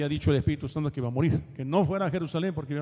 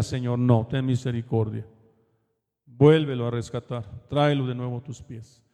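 lower-pitched, earnest plea to God; pleading prayer; 4 semitones lower than usual. Retold or imitated. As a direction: intercede for someone lost, voice dropped low. Voices Paul's pleading prayer. (súplica en oración, voz grave)

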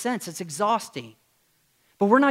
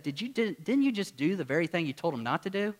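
softer, gentle retold question; a quiet, polite catch-out; kindly, softly; 6 dB quieter than usual. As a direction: ask it kindly, much softer. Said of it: "I just kindly said".

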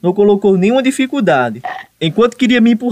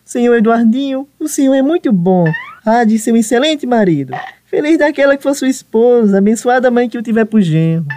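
mocking flattery. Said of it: "era tudo mimos e carinhos".

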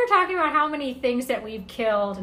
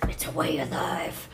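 whispered; 7 semitones lower, 7 dB quieter than usual. Retold or imitated. Mock earnest gardener quote.

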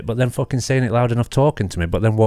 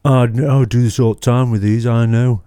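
mock smug voice; 3 semitones higher, 5 dB louder than usual. Mocking the smug inspector.

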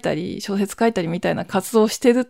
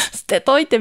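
mimicking sister; 5 semitones higher than usual. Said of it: "みたいな感じで".

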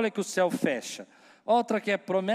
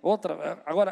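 ordinary talk, nothing marked

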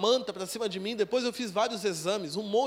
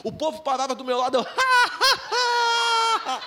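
shrieking laughter, much higher and louder; ecstatic laughter; 6 semitones higher, 5 dB louder, slower than usual. Retold or imitated. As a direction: laugh wildly, overcome with joy. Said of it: "eu comecei / A unção pegou". (gargalhada extática e muito aguda)

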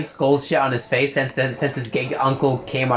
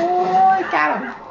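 stoner; 14 semitones higher than usual. Real, not acted. Stoned voice continues.

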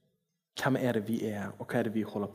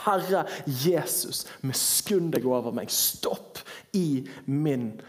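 fervent prayer; 3 semitones higher, slower than usual. Acted. Preacher prays aloud, drawn out.

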